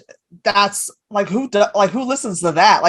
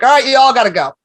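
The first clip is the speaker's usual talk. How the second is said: mock scolding; 4 semitones higher than usual. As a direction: tell squatters off, half joking. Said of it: "I'm like".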